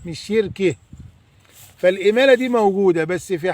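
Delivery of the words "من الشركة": put-on Upper Egyptian accent. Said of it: "وعندنا في الصعيد يقول لك".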